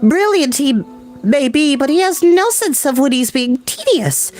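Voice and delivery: put-on high, bright society girl, bored; breezy high voice, gently mocking a tedious professor; high Galinda voice.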